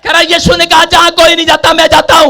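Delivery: loud, high-pitched sustained sermon delivery; full-force preaching. Acted. Preacher retelling Jericho to the congregation, full-force preaching. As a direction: preach it in a driving, unbroken shout.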